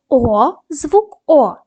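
О drawn out clearly, very slow; slow sound demo. Shown as a demonstration. Teacher models the sound О for pupils. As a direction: sound out the letter О slowly. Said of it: "дамо характеристику кожному звуку".

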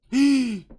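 sharp high frightened gasp; startled gasp. Real, not acted. Gamer startled by an eye in the dark, gasping. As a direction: suck in air in fright.

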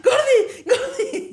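high-pitched, frantic call for help; imitated panicked shouting. Imitating dad calling mom over a spider, panicked shout. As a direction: yell the pet name as dad in terror.

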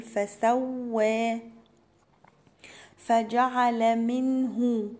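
فسوى with a held, doubled waw. Shown as a demonstration. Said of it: "المشددة معناها إن هي حرفين". (شدة الواو في فسوى)

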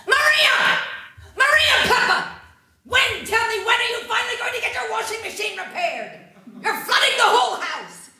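high, loud yell up at the neighbour; furious shout. Acted. Neighbour yelling up at Maria Papa over the flood, loud and furious. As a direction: bellow at her through the ceiling, half laughing at the end.

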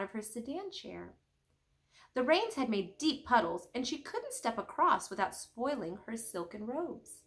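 reading a picture book aloud; storybook read-aloud voice; story narration. A narrator's reading. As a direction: tell it gently to the kids. Reads story aloud to kids.

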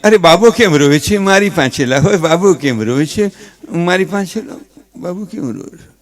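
a hint of a worried father, quick and near plain; fussing father. Father repeats the mother's pleas, lightly voiced. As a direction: rattle off the same pleas in a lightly voiced dad. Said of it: "ઈ છોકરાનો બાપ".

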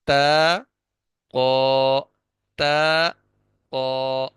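تا light and thin, قو full and heavy from the back; contrasting letter sounds. Shown as a demonstration. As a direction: alternate تا and قو, the first thin, the second thick. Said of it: "ان دونوں کو الگ الگ اس انداز میں کرنا ہے".

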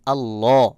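thick, full l in আল্লাহ; heavy L. Shown as a demonstration. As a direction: say আল্লাহ with a rounded, heavy second syllable. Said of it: "সেক্ষেত্রে আমি উচ্চারণ করব". (আল্লাহ-র লাম মোটা করে)

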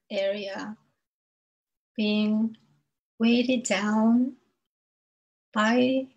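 unhurried meditation guide, long pauses between phrases; spaced-out phrases, leaving room to breathe; guided meditation. Acted. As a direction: lead listeners gently through breath and grounding.

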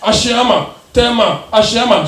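mock call of bus stops; light bus mate shout. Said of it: "cars they shout".

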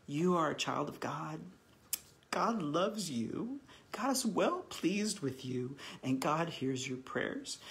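slow, tender blessing spoken over someone; slow heartfelt blessing. Shown as a demonstration. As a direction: bestow it gently, slowing on God loves you. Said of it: "I speak that over people".

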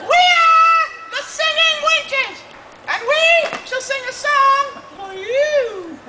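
renaissance fair olde speech. Acted. Wenches announce their song.

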